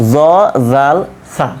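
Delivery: জ, জাল, সা with tongue tip at upper tooth edge; dental, lisped জ, জাল, সা, said one by one; articulation demo. Shown as a demonstration. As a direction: put tongue to teeth for জ, জাল, সা. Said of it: "জিহ্বার আগাটা দাঁতের".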